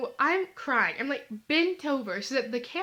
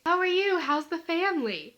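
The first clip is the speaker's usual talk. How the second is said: mock small talk; 4 semitones higher than usual. Joking with the stranger, mock cheery greeting. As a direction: play the cheery churchgoer. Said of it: "being the comedian that I am".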